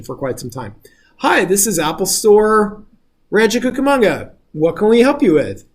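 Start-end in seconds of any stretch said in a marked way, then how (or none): 1.2-5.6 Siri-like store bot. Retold or imitated. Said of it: "Siri-like N L P application".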